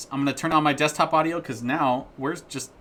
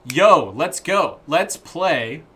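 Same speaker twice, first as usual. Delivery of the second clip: excited; 5 semitones higher, 8 dB louder, much slower than usual. Real, not acted. Hyping up to start playing.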